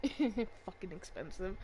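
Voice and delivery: chuckle, then echo it quietly and slowly; amused echo. Real, not acted. Player laughing at the boss's costly robot, amused echo.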